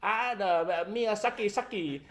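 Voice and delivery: imitating a racist Asian accent; mock Asian accent. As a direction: parody a bad Asian accent. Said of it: "he does an Asian accent".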